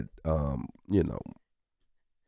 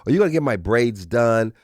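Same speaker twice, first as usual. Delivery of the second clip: put-on lightly higher sweet kid asking dad; little girl voice; 5 semitones higher, 6 dB louder than usual. Daughter asking dad for braids, lightly childlike. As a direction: ask like a hopeful eight-year-old. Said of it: "She said".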